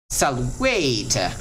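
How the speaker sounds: "salvete" drawn out and stressed on VE; penult stress. Shown as a demonstration. Teacher demonstrates the second to last accent, middle syllable stressed. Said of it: "on the second to last".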